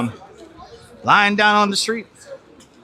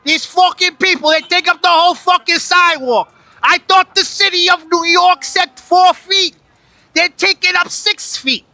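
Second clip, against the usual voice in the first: higher, louder furious New York rant; angry rant; 9 semitones higher, 4 dB louder than usual. Acted. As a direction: shout it at the whole crowd. Ranting at crowd blocking sidewalk.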